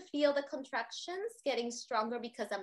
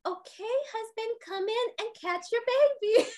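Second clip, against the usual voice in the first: cheerful call; 10 semitones higher than usual. Retold or imitated. Midwife calling husband in.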